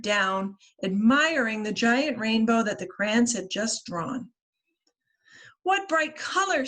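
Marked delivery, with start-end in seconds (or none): 5.6-6.7 lightly voiced sun. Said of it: "said the sun".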